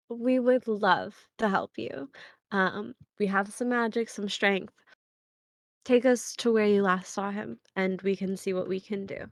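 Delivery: soft, composed offer of help; steady yourself, then reassure gently; calm and kindly. Acted. Smiling adventurer offers worried wife help, calm and soft. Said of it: "calm herself".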